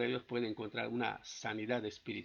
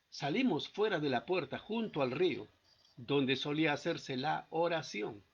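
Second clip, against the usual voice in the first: scripture reading; 2 semitones higher than usual. Acted. Reads scripture aloud.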